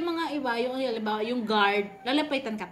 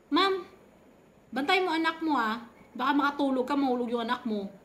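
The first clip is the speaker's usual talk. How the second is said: scolding nurse; 3 semitones higher than usual. Retold or imitated. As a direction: mimic the nurse telling her off. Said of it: "parang galit".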